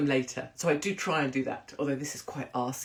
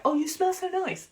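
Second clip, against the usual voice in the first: imitating admirers. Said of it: "they're always like".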